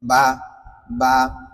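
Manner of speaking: বা said alone, lips lightly released; isolated, careful বা; demonstrating articulation. Shown as a demonstration. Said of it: "হালকা করে ছেড়ে দিবেন".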